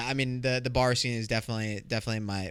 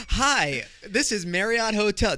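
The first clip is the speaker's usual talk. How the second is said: hotel receptionist voice; 8 semitones higher, 3 dB louder, slower than usual. Retold or imitated. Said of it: "you sound kinda sexy".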